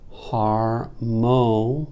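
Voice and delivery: "harmo-" broken into two long syllables; syllable scansion. Shown as a demonstration. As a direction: stretch out "har" and "mo" separately.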